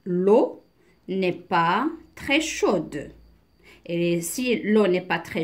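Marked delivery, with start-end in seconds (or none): 0.1-3.1 slow, spaced-out teacher's reading; deliberate reading with pauses; slow model reading. Shown as a demonstration. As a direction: read phrase by phrase for beginners. Slow reading, then explained.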